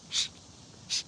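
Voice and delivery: whispered shushing at the chat. Real, not acted. Streamer shushing rowdy commenters, whispered. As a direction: hush the viewers under breath. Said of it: "You need to be quiet".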